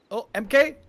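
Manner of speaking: excited shout. Real, not acted. Casting a hero escape.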